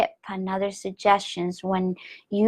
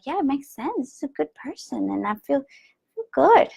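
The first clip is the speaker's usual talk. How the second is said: high, talking herself into it; fake-convinced, ending in a laugh; hint of strained cheer; forced reassurance; 5 semitones higher than usual. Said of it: "be like".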